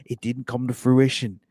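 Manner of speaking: put-on a light Australian accent on a ballplayer's quote. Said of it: "I'll do my best Australian accent".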